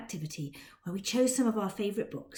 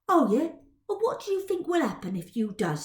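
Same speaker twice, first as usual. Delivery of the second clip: mocking Cockney lad; 6 semitones higher, 4 dB louder than usual. Dodger voice.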